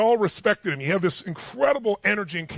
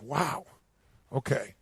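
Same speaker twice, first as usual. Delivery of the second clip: low, much softer reply; stunned hush; 6 semitones lower, 8 dB quieter, slower than usual. Retold or imitated. Private absorbs the general's lecture, retold stunned hush. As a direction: take it in quietly, voice dropping.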